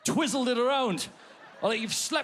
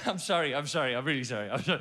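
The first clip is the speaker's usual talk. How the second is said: sheepish apology; 6 semitones lower, faster than usual. Retold or imitated. Sheepish apology to shouting lady.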